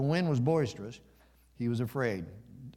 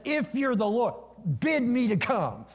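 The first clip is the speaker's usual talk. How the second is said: high, emphatic call across the water; calling out boldly; 10 semitones higher, 4 dB louder than usual. Acted. Peter calls to the Lord from the boat, calling out boldly.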